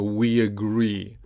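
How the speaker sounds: "we agree" joined with a y glide; no break between the words of "we agree"; linked off glide. Shown as a demonstration. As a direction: say "we agree" as we-yagree. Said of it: "link with the E off glide".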